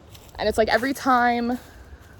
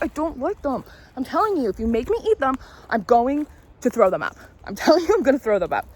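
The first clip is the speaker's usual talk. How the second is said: put-on little girl refusing, a bit higher; whiny little girl; 3 semitones higher than usual. Little girl refusing grandma's tomatoes, whiny. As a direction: protest like a stubborn child.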